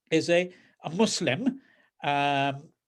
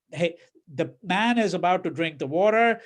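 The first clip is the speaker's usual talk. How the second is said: mocking; 3 semitones higher than usual. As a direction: jeer at the priest's fussiness. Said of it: "So he's mocking the Pandit".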